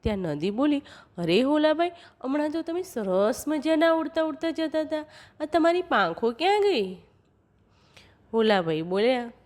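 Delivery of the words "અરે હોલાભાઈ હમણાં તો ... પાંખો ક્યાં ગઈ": a touch of wonder, higher pitch; lightly voiced curious river. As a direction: gently play a puzzled river, pitched up. River questions the dove.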